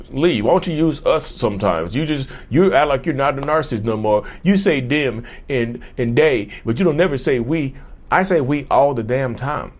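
lightly voiced whiny commenter.

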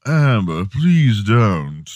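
pleading in a put-on British accent; mock British plea; the speaker's fake British accent. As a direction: beg like a put-upon British actor. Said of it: "your fake British accent".

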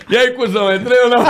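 high, loud mocking brag, laughing; gloating taunt. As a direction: rub it in, cackling. Retold taunt at the security guard.

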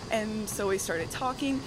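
breathless from the treadmill; out of breath. Real, not acted. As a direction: talk while winded. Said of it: "sorry, I'm out of breath".

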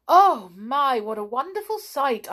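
high, swooping, loud wonder; amazed delight. A narrator's reading. Sandy sees the sky full of witches, delighted.

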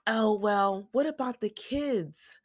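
high, drawn-out mock worrying; Janelle. Recapper mimics a co-wife fretting over kids, mock worried. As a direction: lift it high and stretch it out, mimicking. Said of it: "Janelle's all like".

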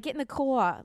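lightly imitated New Orleans Yat accent; South-meets-New-York family accent, imitated. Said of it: "my family has it".

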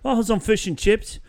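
high-pitched mock British; hammed-up stock British accent; American squeaking out a fake British accent; generic British accent. Shown as a demonstration. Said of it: "the generic".

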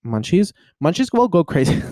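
giggling through the words; laughing. Real, not acted. Laughing about munchies.

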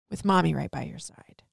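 whispered promise; whispering a mother's promise to her son. Real, not acted. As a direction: breathe it out under her voice.

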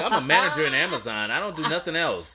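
his own reply said with a laugh. Retold or imitated. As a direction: chuckle through your own comeback.

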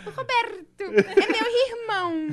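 put-on high, slow child voice, "Roberto" rolled and "irmão" with a Carioca R; child's rolled R. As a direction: show off the rolled R in "Roberto" slowly, laughing. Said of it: "Quando ela fala o R assim". (voz aguda e lenta de criança: "Roberto" com R enrolado, "irmão" meio carioca)

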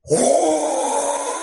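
high startled oh, imitated; startled cry. Imitating the repairman caught by gas, startled. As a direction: yelp in surprise as gas bursts out. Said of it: "all you hear is".

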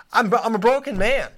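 high, fast hammed-up whine of a broken man; mock despair. Host whining about his foul-mouthed guests, hammed-up despair. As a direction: throw up your hands, mock wailing.

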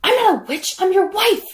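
high, loud outraged wife; indignant high-pitched protest; witch-like wife. Retold or imitated. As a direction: act it up like a screechy witch. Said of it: "As she's acting like a witch".

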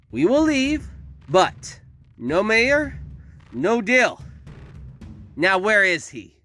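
high, loud, drawn-out screechy demands; screeching villainess. A narrator's reading. Victoria gives the town an ultimatum, screeching. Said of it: "Victoria screeched and hacked".

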